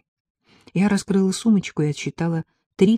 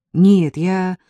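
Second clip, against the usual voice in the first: louder, flustered correction; hurried; 3 semitones higher, 7 dB louder than usual. A narrator's reading. Ella hastily, embarrassedly corrects herself again. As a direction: hurry to take it back. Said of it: "снова заторопилась Элла".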